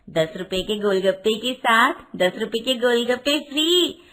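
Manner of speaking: lightly voiced golgappa seller calling customers; street vendor's cry. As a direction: hawk snacks in a sing-out street call.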